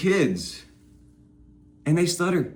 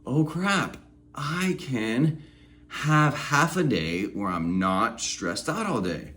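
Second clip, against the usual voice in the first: amazed; 4 dB quieter than usual. Retold or imitated. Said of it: "you're like".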